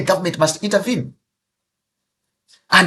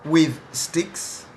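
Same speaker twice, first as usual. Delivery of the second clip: public outcry; 2 semitones higher, slower than usual. Real, not acted. Minister condemning attacks at rally.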